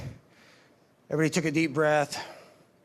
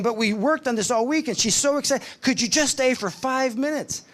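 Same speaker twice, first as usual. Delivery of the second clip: pleading; 7 semitones higher than usual. Retold or imitated. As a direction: beg the guardian to stay, voice way up. Counselor pleads at car.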